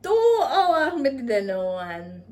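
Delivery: high, loud, drawn-out cry of disbelief; loud exclamation. Retold or imitated. Storyteller exclaiming over two hours waited in vain, high loud disbelief.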